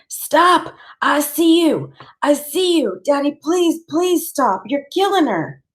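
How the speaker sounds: high, frantic begging to stop; a child screaming at his father to let go; desperate pleading scream. A narrator's reading. Boy begs his father to stop choking her, high frantic plea. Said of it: "I'm going".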